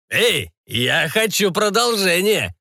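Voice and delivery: put-on slow, high drunken pirate. A narrator's reading. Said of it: "пьяным голосом заявил пират".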